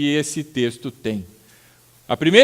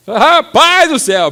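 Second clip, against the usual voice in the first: higher, louder startled outburst; mock startled fright; 11 semitones higher, 10 dB louder, slower than usual. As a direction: jump out of your skin at a noise in the night. Hearing crows scream at night.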